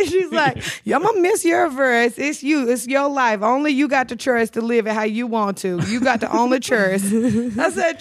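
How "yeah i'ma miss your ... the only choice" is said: New Orleans lady's emphatic advice, imitated; New Orleans accent. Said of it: "with that damn accent".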